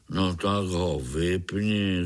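slow, grumpy mumble; slow mild grumble; grumbling. Acted. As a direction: brush it off like an old grouch. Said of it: "zabručel pavouk".

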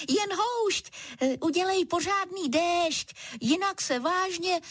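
high, laughing teasing zebra. Acted. Zebra laughing at the little cloud, high. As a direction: tease the cloud through a laugh. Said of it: "smála se zebra".

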